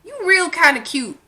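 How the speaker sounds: flirt with a stranger, half teasing; playful pickup voice; flirty pickup line. Retold or imitated. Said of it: "'cause I'ma tell you".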